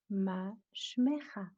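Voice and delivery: "Ma shmecha" read slowly as a question. Shown as a demonstration. Teacher reading the verse as a question. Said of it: "so to speak, with a question mark".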